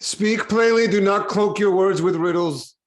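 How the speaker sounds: king snaps at riddling suppliants, raising his voice; angry command. Acted. King loses patience with the suppliants, angry and loud. King demands plain answer, angered.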